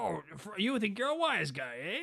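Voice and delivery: high-pitched put-on Irish accent; mock Irish cop. Traffic cop threatens Frosty with a ticket, mock Irish accent. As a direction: needle them as a comic Irish policeman. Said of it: "he's, like, this Irish guy".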